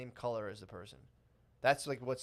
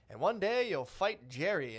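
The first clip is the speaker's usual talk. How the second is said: lightly acted storybook voice, slow and higher; children's war book; 6 semitones higher, 4 dB louder, slower than usual. Book telling English kids about war, slow storybook voice. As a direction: read it slowly like a kids' book, pitched up. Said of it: "a book being like".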